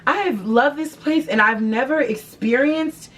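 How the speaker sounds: high, hurt and concerned customer; sound concerned. Pretend. To a manager, a high, hurt concerned customer. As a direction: play the wounded loyal customer. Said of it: "you gotta honestly sound concerned".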